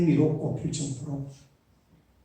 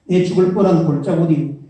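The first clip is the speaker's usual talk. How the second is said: put-on higher, punchy Gyeongsang accent reading the psalm; Gyeongsang dialect; 4 semitones higher, 8 dB louder than usual. Pastor reading Psalm 23 in dialect, Gyeongsang accent. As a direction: give it a blunt Gyeongsang accent. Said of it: "그 다음에 경상도 보죠".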